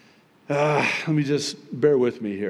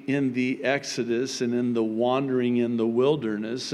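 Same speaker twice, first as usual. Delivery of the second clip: normal talking voice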